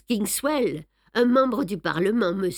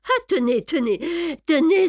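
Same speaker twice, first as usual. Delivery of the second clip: rising higher and louder with each tenez; excited exclamation; 9 semitones higher, 5 dB louder than usual. A narrator's reading. Poirot spots the letter and cries out excitedly. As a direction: cry it out as if seizing on proof. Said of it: "s'écria Poirot".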